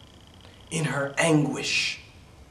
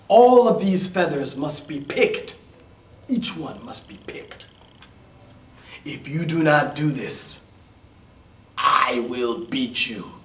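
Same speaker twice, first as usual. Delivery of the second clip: cruel stepmother; 6 dB louder than usual. Acted. Cruel stepmother gives orders.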